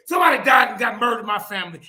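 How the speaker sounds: loud, forceful outburst; indignant retort. Real, not acted. Angry retort to quoted excuse.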